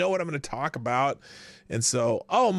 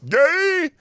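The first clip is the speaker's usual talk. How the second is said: incredulous; 11 semitones higher, 9 dB louder than usual. Real, not acted. Reacting to a clip.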